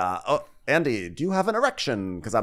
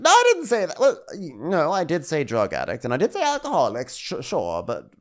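mock Karen backpedaling; 3 semitones higher than usual. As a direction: play her squirming out of it. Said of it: "She's like".

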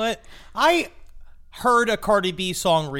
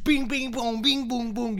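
high, springy sound effects; imitated bouncing; 6 semitones higher than usual. Host mimics co-host bouncing in the chair, high and springy. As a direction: bounce each little noise up high. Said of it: "bouncing up and down".

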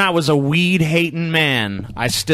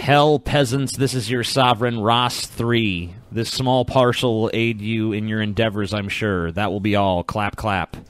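haughty noble; 4 semitones lower, 3 dB quieter, slower than usual. Acted. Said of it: "One of the nobles, uh, visiting the peasants".

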